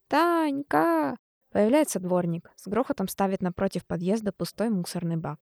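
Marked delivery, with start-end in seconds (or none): 0.1-1.2 desperate shouts. A narrator's reading. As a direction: yell for her from the yard. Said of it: "отчаянные крики".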